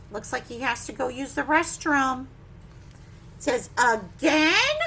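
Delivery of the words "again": exasperated question. Acted. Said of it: "a question mark".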